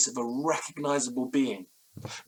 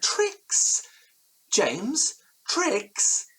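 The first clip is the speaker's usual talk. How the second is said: much higher, indignant disbelief; incredulous outburst; 13 semitones higher, 3 dB louder, much slower than usual. Acted. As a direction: throw the word back at James in shock. Elliot outraged at being doubted.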